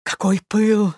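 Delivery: loud, rising theatrical admiration; exclaimed. A narrator's reading. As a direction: gush with exaggerated enthusiasm. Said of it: "воскликнула Марья Александровна".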